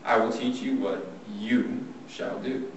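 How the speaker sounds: slow, firm command with mild force; measured, mildly forceful instruction; forceful God. Acted. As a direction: lay it down firmly, word by word. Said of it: "I imagine God being very forceful".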